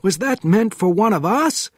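high, alarmed question; frightened. A narrator's reading. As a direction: ask in fear after the shot. Panov frightened after shot.

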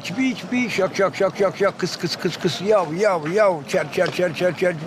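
unbroken chain of changing repeated syllables; bird song demo. Shown as a demonstration. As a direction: run through a finch's song motif by motif. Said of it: "Ondan sonra girerdi". (zincirleme saka ötüşü taklidi)

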